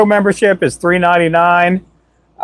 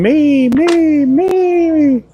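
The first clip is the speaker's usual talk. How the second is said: squeaky, much higher chat voice; chat spamming me; 12 semitones higher, much slower than usual. Retold or imitated. Streamer mimicking chat begging for the drawing, squeaky and high. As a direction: mimic eager viewers begging, pitched way up. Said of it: "we got people going".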